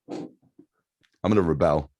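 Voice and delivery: slow, deliberate mock threat; mock rebel clone. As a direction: drag it out like a clone rising up. Joking clone existential crisis.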